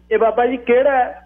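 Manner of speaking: high, boastful elder's voice; high-pitched, puffed-up pride; self-important old man. A narrator's reading. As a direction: brag as if you had friends at the very top. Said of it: "ਬਾਬੇ ਨੇ ਅੱਖਾਂ ਚੜਾ ਕੇ ਗੱਲ ਕੀਤੀ ਜਿਵੇਂ".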